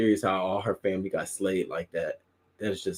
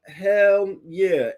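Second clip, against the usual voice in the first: excited hell yeah; 12 semitones higher, 6 dB louder, slower than usual. Real, not acted. Keeps shouting over the clip.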